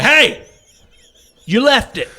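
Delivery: high-pitched holler after someone; retold yell. Shopper to driver shutting his door, high retold yell. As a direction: call out high, as if to someone leaving. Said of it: "I yell at him again".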